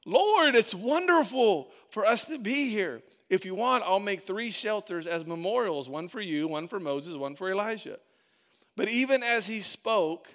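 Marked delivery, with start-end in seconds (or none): 0.0-8.0 eager Peter. Retold or imitated. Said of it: "So Peter says".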